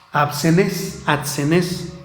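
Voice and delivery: sounding out "absenes" as a hard foreign word; "absenes" attempted with a wavering b or d before the s; tentative Greek pronunciation. Shown as a demonstration. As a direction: try "absenes" twice, unsure of the consonant cluster. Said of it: "Está difícil de pronunciarla".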